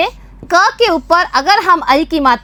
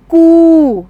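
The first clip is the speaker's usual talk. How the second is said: louder model answer for pupils; 5 dB louder than usual. Shown as a demonstration. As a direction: call out कू clearly. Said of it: "तो इसे क्या बोलेंगे हम?". (बच्चों के लिए ज़ोर से कू)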